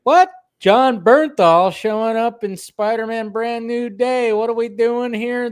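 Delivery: high, slow, stunned disbelief; can't believe the news; shocked disbelief. Retold or imitated. Retold shocked reaction to news.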